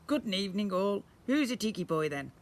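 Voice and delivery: high, parroty squawked talk; a lightly voiced chatty parrot. Parrot skeleton talks.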